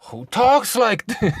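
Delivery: high, loud, breaking into laughter; cracking up. Real, not acted. Reacting to own put-on voice, cracking up laughing. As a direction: laugh at your own silly voice.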